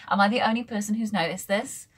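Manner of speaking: airy laugh into a whispered question; conspiratorial whispered joke. Real, not acted. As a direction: giggle then whisper the question. Joke about tardis and Welsh.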